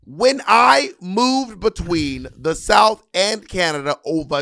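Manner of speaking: put-on high, slow, loud old Brooklyn Jewish man voice; Harriet Tubman bit. Comic playing Harriet Tubman in an old Brooklyn man voice. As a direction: drag out every word like an old Brooklyn uncle.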